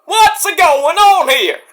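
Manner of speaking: high, slow puzzled voice; confused onlooker. Retold or imitated. Onlooker puzzled by the team, high and slow. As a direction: drag it out, baffled.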